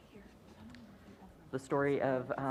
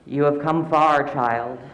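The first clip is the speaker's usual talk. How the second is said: put-on old woman voice; 2 semitones higher, 6 dB louder than usual. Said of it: "her voice cracking like ice".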